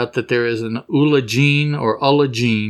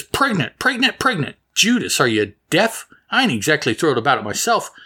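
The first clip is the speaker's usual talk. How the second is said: daughter's retort; 3 semitones higher, faster than usual. Retold or imitated. Daughter answers shocked parents.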